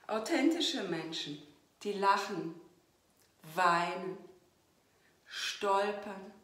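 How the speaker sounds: measured poetry reading with weighted pauses; poem recital. Acted. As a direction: recite it line by line, leaning on key words. Reads own poem aloud.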